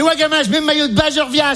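high, quick mum voice; mother's voice. Acted. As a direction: rattle it off high, as the eager mother. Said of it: "Elle fait".

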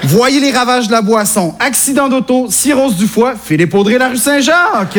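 solemn public-warning parody; mock anti-alcohol ad. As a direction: list the disasters like an ad voice, lifting the last one. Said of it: "j'ai une pub contre l'alcool". (parodie de pub de prévention)

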